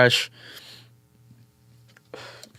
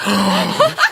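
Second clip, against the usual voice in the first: stunned gasp; 6 semitones higher than usual. Retold or imitated. Retold stunned reaction with gasp.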